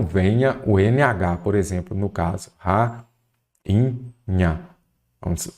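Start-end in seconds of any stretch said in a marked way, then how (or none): 2.6-3.0 "rainha" dividido em "ra-i-nha"; separado em sílabas. Shown as a demonstration. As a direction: diga "rainha" sílaba por sílaba, com pausas. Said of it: "vamos separar aqui em sílabas". ("rainha" silabado, isolando o I)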